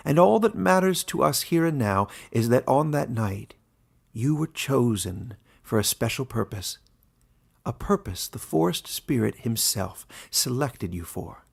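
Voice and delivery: lightly voiced old warden, genial; a genial old ruler opening the meeting. Warden addressing his animal council, lightly voiced and genial.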